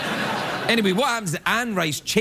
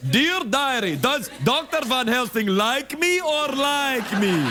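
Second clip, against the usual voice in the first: put-on teen diary voice; 8 semitones higher, slower than usual. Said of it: "you know".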